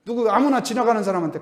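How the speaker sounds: ordinary delivery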